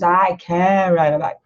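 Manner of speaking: slow, careful Brazilian-accented I can ride a bike. Shown as a demonstration. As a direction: say it the way a Brazilian learner would. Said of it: "da maneira que nós brasileiros falamos".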